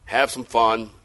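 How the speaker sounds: lightly voiced discouraged churchgoer; disillusioned believer. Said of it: "Maybe you've been thinking about".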